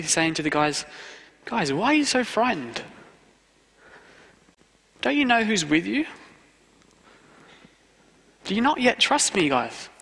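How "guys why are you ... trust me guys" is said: higher, gentle coaxing Jesus; kindly chiding his friends; nice and loving. Retold or imitated. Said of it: "in a nice and loving way".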